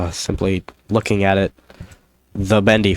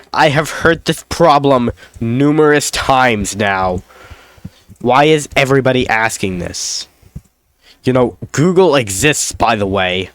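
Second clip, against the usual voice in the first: snooty Redditor; 4 semitones higher than usual. Retold or imitated. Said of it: "They'll be like".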